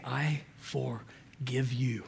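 slow tender whisper; a father forgiving his son in a whisper; whispered forgiveness. Retold or imitated. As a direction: breathe it softly, full of mercy.

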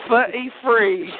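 footy free, th and r dropped; footy free for thirty three. Shown as a demonstration. Teaching a friend the accent: footy free. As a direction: say footy free, both th sounds as f. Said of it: "You're saying thir".

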